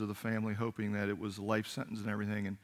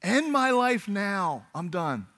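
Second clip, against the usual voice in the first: loud, high, drawn-out mock wail, then dropping; exasperated anger; 7 semitones higher, 7 dB louder, slower than usual. Jonah giving up before God, hammed-up exasperation. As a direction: melodramatic fed-up outburst. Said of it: "Jonah gets angry again".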